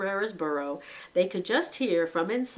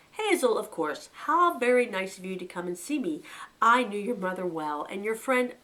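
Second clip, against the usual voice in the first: lightly voiced chief rabbit; 2 semitones higher, 4 dB louder than usual. Old chief rabbit welcoming a visitor, lightly voiced. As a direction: greet the guest with easy condescension.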